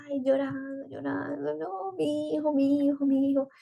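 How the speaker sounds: high, drawn-out mock wail; imitating herself wailing in tears; re-enacted crying. Mother retelling nightly tears over leaving her baby, re-enacted crying. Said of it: "Llegaba llorando, ustedes no se imaginan".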